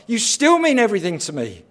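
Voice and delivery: loud, high devoted cry; fervent devotion. Acted. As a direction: pour out love through the pain. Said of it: "He's saying".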